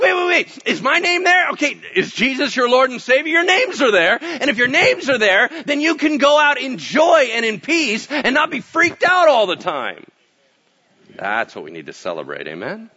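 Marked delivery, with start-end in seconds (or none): 0.0-10.0 loud, high, eager questioning; excited. Retold or imitated. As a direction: act out a thrilled believer's rush of questions. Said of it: "And you're like".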